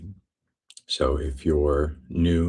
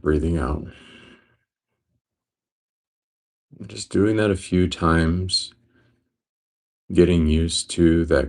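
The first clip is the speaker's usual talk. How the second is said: steady meditation guide, long pauses between phrases; guided meditation. Real, not acted. Teacher guiding listeners into breath awareness, guided meditation. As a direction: guide them calmly, leaving space after each phrase.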